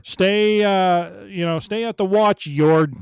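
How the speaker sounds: high, loud orders; loud commanding. Acted. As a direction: bark orders at the Padawan. Voicing Sol ordering Yord.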